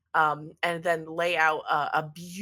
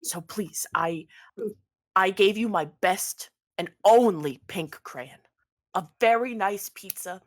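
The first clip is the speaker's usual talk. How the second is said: lightly voiced pleading pizza maker; 2 semitones higher than usual. Pizza maker begs Ernest to call off attacks, pleading. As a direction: beg a favor, stretching out the please.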